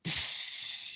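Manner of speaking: long hissing shaker-like noise; imitated percussion noise. Bandmate imitating the percussionist at the mic, long hissed noise. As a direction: imitate a drummer's shaker with your mouth. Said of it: "he's like".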